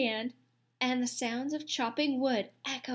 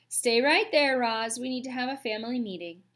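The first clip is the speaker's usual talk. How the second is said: tail-slap meaning; 4 dB louder than usual. Acted. Mister Beaver halting Roz.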